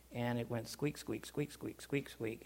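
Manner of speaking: soft squeak, squeak like a rusty pump; squeaky pump imitation.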